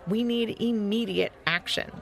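mildly exasperated protest; very annoyed. Acted. Lupo protests eating during a crisis, mildly annoyed. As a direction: press the complaint with emphatic stresses. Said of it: "acting very annoyed".

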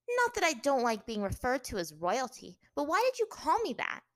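high, loud, haughty princess voice; haughty captive princess. A narrator's reading. Captive princess questioning her captor, haughty. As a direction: challenge him with wounded pride, pitch climbing.

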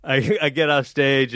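ordinary delivery

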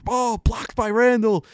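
high, loud, slow broadcaster call; Mike Breen call. Retold or imitated. Announcer calling the chase-down block, high slow excited call. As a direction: stretch it like a TV play-by-play man. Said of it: "I wish Mike Breen was on the call".

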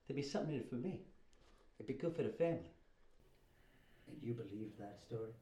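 low, quiet, hushed confession; a nervous brother whispering his excuses; Fredo in the boathouse scene. Acted. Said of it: "can do the whole boat scene from The Godfather".

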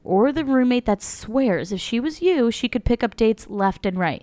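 upbeat sponsor read voice. Acted. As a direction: read it like a podcast ad. Ad read opening.

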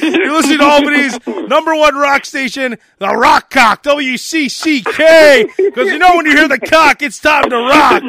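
rock station liner. Acted. DJ tags Albany's rock station, stretched announcer delivery. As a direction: punch it like a station ID.

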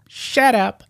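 mocking high-pitched squeal; put-on falsetto imitation. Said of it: "says in a high voice".

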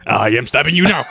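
stiff cartoon villain voice; formal, overly precise cartoon monkey; Mojo Jojo voice. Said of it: "Mojo Jojo's voice".

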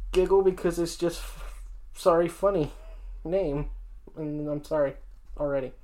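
holding back a giggle, quiet; trying hard not to laugh; stifled giggles. Real, not acted. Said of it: "I'm trying not to".

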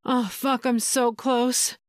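understated slow urgent hiss. Acted. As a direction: let it hiss out on the edge. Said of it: "she hissed".

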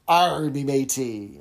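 slow cartoon pirate accent, drawn out; a hammed-up pirate growl. Shown as a demonstration. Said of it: "a cartoonish pirate accent".

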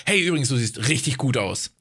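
casual explaining tone, no flirting; neutral, informative tone. Shown as a demonstration. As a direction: say it like passing on information. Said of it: "so neutraler macht".

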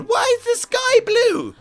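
put-on high, slow, pleading little kid; whiny child voice. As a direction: whine it like a small child tugging at trousers. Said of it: "your nieces or nephews are tugging at your trousers going".

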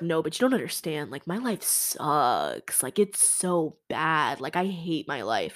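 mock pity-party complaint, key words dragged out; self-pitying moan. Quoting a self-pitying guy moaning.

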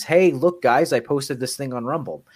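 loud, high "hey, look" call-out; excited announcement. Retold or imitated. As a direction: call everyone over to show them something. Retelling own excited post.

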